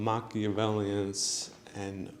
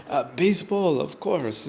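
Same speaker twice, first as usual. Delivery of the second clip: put-on French accent; 6 semitones higher, 7 dB louder than usual. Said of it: "talking with that accent".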